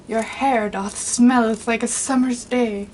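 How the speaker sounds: lightly hammed-up old English flourish; mock Shakespearean. Shown as a demonstration. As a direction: play at being a Shakespeare lover. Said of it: "Then I could go and be like".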